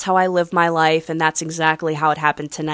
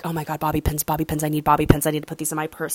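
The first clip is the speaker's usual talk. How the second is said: a softer, hushed thrilled voice; sneaky excitement; 2 semitones lower, 6 dB quieter, much faster than usual. Retold or imitated. Spotting bobby pins, hushed so the desk worker won't hear. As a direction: hush your delight over the free bobby pins. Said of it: "I'm like".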